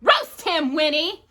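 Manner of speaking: loud witch growl. A narrator's reading. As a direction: growl the order. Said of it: "Mary growled".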